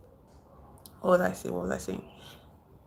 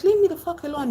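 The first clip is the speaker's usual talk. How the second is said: higher, louder-edged retold snap; mock exasperated outburst, pitched up; frustrated outburst; 11 semitones higher, 4 dB louder, faster than usual. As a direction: act out pushing a friend away. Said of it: "he was frustrated".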